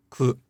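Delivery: ku with a voiceless u; devoiced ku. Shown as a demonstration. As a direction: whisper the vowel in ku, no pitch. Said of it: "if you did devoice".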